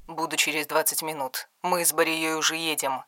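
father-in-law speaking through a phone, distant and soft. A narrator's reading. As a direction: sound small, as through a phone.

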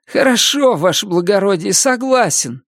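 high, fawning convict voice; fawning prisoner. A narrator's reading. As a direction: flatter the officer, eager to please. Prisoner agreeing to run.

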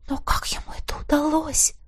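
breathless whisper of disbelief; barely voiced, stunned; awed whisper. A narrator's reading. Heroine stunned by the killings, whispering.

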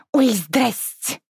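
high, slow sing-song hello; a teen sister caught off guard but brazen; cheeky greeting. Acted. Caught sister greets the stranger, drawn-out sing-song. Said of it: "И даже почти не смутилась".

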